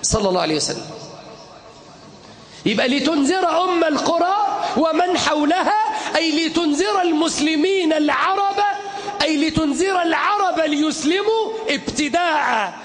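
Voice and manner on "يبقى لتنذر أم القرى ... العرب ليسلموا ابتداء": fiery shouted sermon; soapbox orator. Acted. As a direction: preach it with full force to a crowd.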